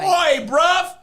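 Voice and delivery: mock London slang; cheeky Cockney oi; British accent. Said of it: "Help me be good at British".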